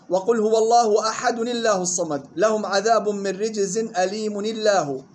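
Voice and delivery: الله linked after "-ni" with a thin l; light lam, joined. Shown as a demonstration. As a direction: join أحد and أليم to الله with light lam. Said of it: "مع ترقيق لام لفظ الجلالة وصلا". (الله بترقيق اللام وصلًا بعد كسر التنوين)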